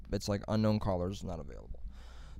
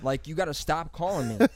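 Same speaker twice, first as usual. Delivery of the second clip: furious shout, much louder and higher; yelling at scammer; 6 semitones higher, 7 dB louder than usual. Retold or imitated. Cursing out the pushy scam caller, loud and furious. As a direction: scream him off the phone. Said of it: "I was hoeing this guy".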